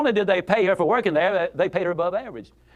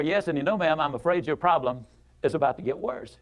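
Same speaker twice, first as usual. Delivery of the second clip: steady, not unkind, a little lower; firm but kind; 4 semitones lower, 3 dB quieter than usual. Retold or imitated. Speaker to complaining lady, firm and unhurried. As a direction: set her straight gently but firmly. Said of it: "but firmly I said to her".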